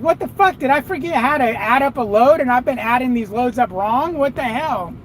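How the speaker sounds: a trucker reliving the shock of thinking he can't add; retold panic. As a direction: replay your own moment of doubt. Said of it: "I'm like".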